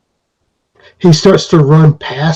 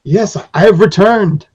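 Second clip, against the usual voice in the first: high, proud little master voice; lightly voiced creature king announcing his return; returning leader; 3 semitones higher than usual. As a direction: greet your children grandly. Periwinkle returns to his people.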